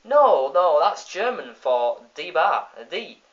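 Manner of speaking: loud no, no then slow sly excuse; smug villain talking his way out; Sideshow Bob voice. Retold or imitated. Bob lying to the lawyer, slow and smug. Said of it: "Sideshow Bob says".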